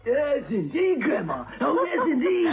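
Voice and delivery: put-on old woman voice. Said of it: "you ought to be on stage".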